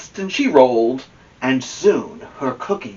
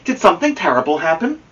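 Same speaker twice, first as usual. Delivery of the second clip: a touch of worry; 5 semitones higher, faster than usual. Acted. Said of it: "said Amelia Bedelia".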